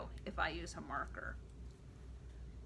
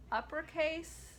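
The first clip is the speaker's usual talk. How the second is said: high voice for uppercase; 6 semitones higher than usual. Shown as a demonstration. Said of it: "uppercase and lowercase chant".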